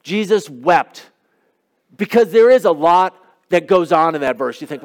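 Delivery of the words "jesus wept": "Jesus wept" said slowly, word by word, as if to memorize; slow recitation. Shown as a demonstration. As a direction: spell out "Jesus wept" slowly for the congregation to learn. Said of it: "Try this one as a starter".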